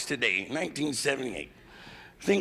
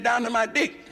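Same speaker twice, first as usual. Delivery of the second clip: punchline lady; 7 semitones higher than usual. Retold or imitated. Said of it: "She said".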